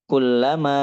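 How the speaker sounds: "kullama" flowing as one word; joined. Shown as a demonstration. Teacher demonstrating joined words, "kullama" run together. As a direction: say "kullama" connected, without a break. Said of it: "itu nyambung".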